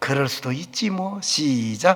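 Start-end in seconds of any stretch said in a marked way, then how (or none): 0.0-1.2 soft, calm, peaceful, unbothered tone. Leading a repeat-after-me line with peaceful dove eyes: calm, peaceful. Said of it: "평온한 비둘기 눈을 하고".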